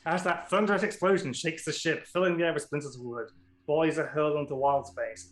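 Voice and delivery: dramatic scene-setting read; game master narration. A narrator's reading.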